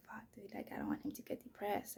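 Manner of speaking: hushed, breathy worry to herself; soft whispered worry about her son; worried whisper. Retold or imitated. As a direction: whisper it like a fear you barely admit.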